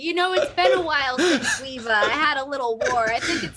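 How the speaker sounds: hammed-up British delight; mock British accent. Joking about war after "down with the Brits", mock British. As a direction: put on a cheery mock-British voice.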